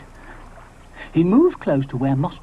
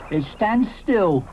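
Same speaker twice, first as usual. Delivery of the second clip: dismissive Ally; 5 semitones higher, slower than usual. Acted. Ally contradicts Moschops, slow dismissive denial. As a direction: slowly contradict.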